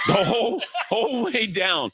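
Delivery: laughing so hard the voice cracks high; high, breaking laugh through the words. Real, not acted. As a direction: burst into laughter mid-line.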